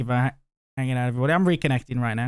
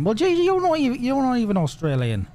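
mock protest; 7 semitones higher than usual. Mock protest at confused viewers.

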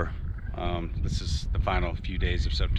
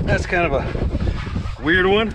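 laughing; 11 semitones higher, much slower than usual. Real, not acted. Laughs at an odd section.

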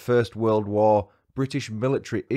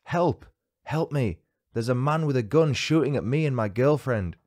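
high, pitched-up mild mock cry for help; retold scream; 4 semitones higher than usual. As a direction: lightly imitate a panicked shout. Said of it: "Trevor screamed".

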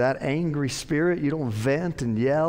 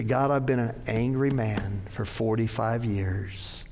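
sample prayer; 3 semitones lower than usual. Pretend.

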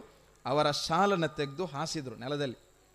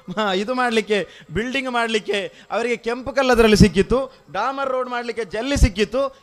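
raised, louder sermon voice; emphatic preaching; 6 semitones higher, 8 dB louder than usual. Real, not acted. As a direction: press each point home to the congregation. Preacher raising his voice. (ಜೋರಾದ ಪ್ರವಚನದ ಧ್ವನಿ)

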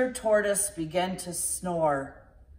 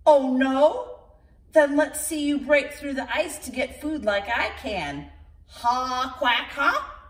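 higher, mocking duck laughing; taunting duck; 4 semitones higher, 3 dB louder than usual. The duck taunts Shelley, higher and mocking. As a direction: gloat like a smug duck.

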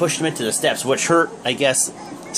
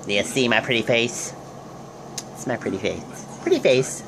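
mock taunt; 6 semitones lower, 6 dB quieter than usual. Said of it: "I'm kidding".

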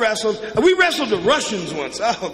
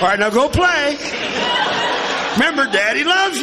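cheery dad; 5 semitones higher than usual. Retold or imitated. Dad after smacking kid.

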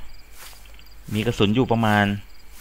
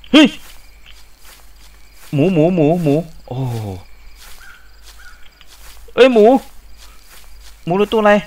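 1 startled shouts; 5 semitones higher, 5 dB louder than usual. Real, not acted. Startled by pig in dark.

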